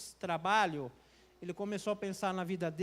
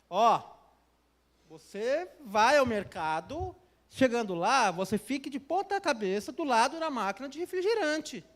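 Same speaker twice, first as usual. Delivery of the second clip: insistent voice; 3 semitones higher, 4 dB louder than usual. Retold or imitated. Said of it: "a voz falando".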